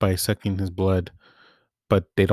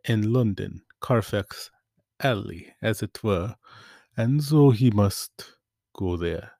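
put-on Dracula accent. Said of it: "sorry, I had to do the accent".

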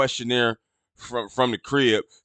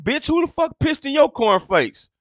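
outraged retort; 12 semitones higher than usual. Retold or imitated. Imagined comeback to rude nurse.

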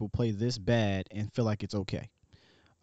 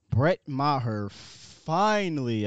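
The Rock; 2 semitones higher, much slower than usual. Retold or imitated. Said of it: "as The Rock would say".

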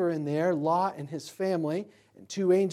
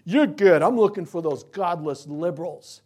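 a hint of a smug partisan, loud start; lightly lampoon a self-righteous Republican; voicing a smug conservative Jesus caricature, mock; 6 dB louder than usual. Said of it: "Jesus isn't gonna be like".

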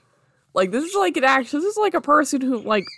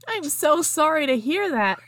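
emphatic sympathy, higher pitch; empathetic; 8 semitones higher, 4 dB louder than usual. A narrator's reading. Hagrid consoling orphaned Harry, heartfelt empathetic tone. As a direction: lay on the sympathy in a storybook voice. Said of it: "Hagrid uttered empathetically".

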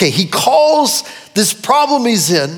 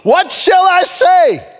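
anguished plea; 3 semitones higher, slower than usual. Acted. Jesus' anguished words acted.

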